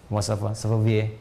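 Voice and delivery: lightly imitated French speaker; a quick mock-French accent. Shown as a demonstration. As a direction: ask it like a native French speaker. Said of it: "Kayak orang Prancis".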